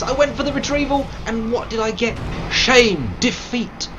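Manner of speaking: high, loud theatrical wails of despair; mock tragic outcry. Streamer bemoaning his failed retrieval in a loud mock-tragic cry. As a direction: ham up the lament like a fallen hero.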